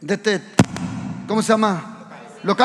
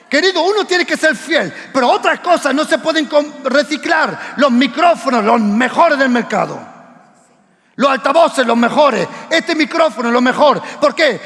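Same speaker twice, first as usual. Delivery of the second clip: raised, insistent sermon voice; full-force preaching; 2 semitones higher than usual. Real, not acted. Pastor exhorting his church to give the best, insistent. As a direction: drive the point home to the flock.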